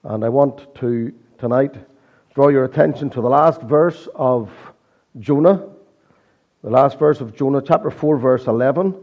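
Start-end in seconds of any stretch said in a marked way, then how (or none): 2.4-9.0 hoarse from a sore throat; croaky, worn-out voice. Real, not acted. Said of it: "croaky voice".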